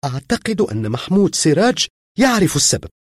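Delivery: put-on a tearful girl naming the neighbour; crying. A narrator's reading. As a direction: say it weeping again. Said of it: "وهي تبكي من جديد".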